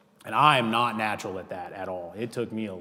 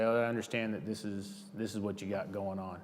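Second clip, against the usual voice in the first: calm; 6 dB quieter than usual. Shown as a demonstration. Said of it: "stay calm".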